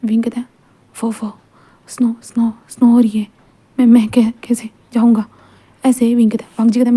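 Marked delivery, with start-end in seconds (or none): 0.9-5.2 shivering whisper. Acted. Wing, freezing, tells Wang Ji the snow traps him in a stammering whisper. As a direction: whisper it through chattering cold.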